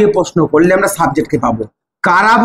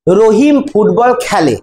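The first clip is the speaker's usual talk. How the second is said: very slow, each word laid out; slow dictation; much slower than usual. Shown as a demonstration. Teacher dictating a new example sentence to students, very slow. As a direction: dictate it slowly so they can write.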